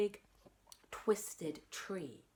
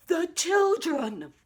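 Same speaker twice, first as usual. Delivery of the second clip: higher, louder and slow desperate cry; urgent shout; 10 semitones higher, 9 dB louder, slower than usual. Acted. Boy warning the parents again, desperate shout. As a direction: plead with them to listen. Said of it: "I shouted".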